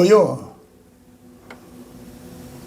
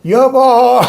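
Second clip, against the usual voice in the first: tender address; 3 semitones higher, 3 dB louder, much slower than usual. Retold or imitated. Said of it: "저 할 때 여자 보고는".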